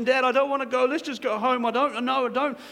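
put-on crying little girl. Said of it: "the little girl's crying".

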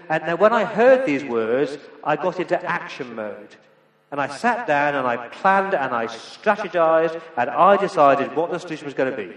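loud, pushy misreading of the verse; mock misquote, loud and driven; wrong version, loud. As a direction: belt out the made-up action-hero version. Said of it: "Is that what he says?".

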